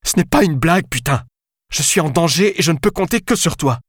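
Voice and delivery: high-pitched desperate pleading; fragile, near tears. A narrator's reading. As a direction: plead at the end of your nerves. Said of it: "la fragilité dans sa voix".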